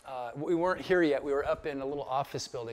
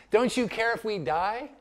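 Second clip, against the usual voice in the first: high, raised reproachful question; imitated appeal, pitched up; disciples' plea; 6 semitones higher, 4 dB louder than usual. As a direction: act out a disciple demanding an answer. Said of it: "the disciples say to him".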